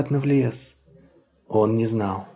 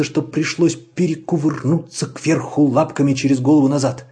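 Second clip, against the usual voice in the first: usual speaking voice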